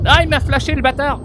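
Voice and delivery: high, loud startled cry; startled shout. Real, not acted. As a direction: cry out, blinded. Blinded by a flashbang.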